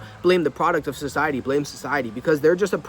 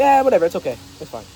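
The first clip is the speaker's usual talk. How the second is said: dismissive; 3 dB louder, faster than usual. Shown as a demonstration. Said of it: "Don't be dismissive".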